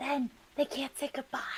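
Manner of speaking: stage whisper. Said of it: "I'm gonna stage whisper to Hawthorne".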